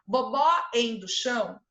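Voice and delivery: put-on "Bobó endo chão" with toddler consonants dropped; baby talk. Shown as a demonstration. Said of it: "o bebê vai falar".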